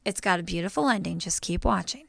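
gentle retold mom voice; imitating reassuring mom. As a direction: quietly urge a child on. Mom soothing crying child.

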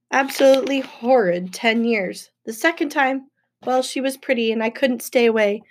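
mildly pouty, petulant complaint; pouting child. Acted. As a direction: complain like a sulky six-year-old. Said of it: "sounded like he was about six years old".

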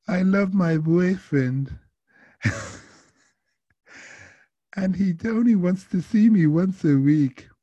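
put-on high, drawn-out French-accented lament; French woman's accent. Lovesick passenger confiding in driver, high French accent. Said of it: "an acquired accent in her voice".

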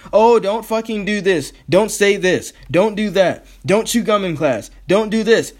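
a hint of a preachy parent listing rules; mock nagging. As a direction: rattle off the rules like a mocked nag. Mocking rule-givers listing bans.

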